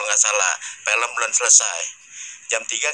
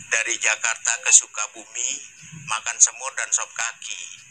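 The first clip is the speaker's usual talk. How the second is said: reciting a pantun; 4 semitones lower, 4 dB quieter than usual. Shown as a demonstration. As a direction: recite it like a traditional verse. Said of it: "Spesial dipantunin terus nih". (membacakan pantun dengan berirama)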